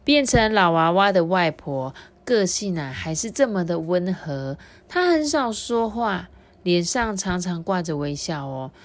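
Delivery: lively picture-book reading; story narration for children. A narrator's reading. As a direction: tell it to small listeners with clear, lifted phrases.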